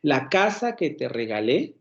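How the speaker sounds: La casa que te regalé, slow, the tune sinking across the phrase; falling intonation demo. Shown as a demonstration. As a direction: draw out the phrase to show its falling curve. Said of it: "la entonación va decreciendo dentro de esa frase". (entonación descendente, lenta y marcada)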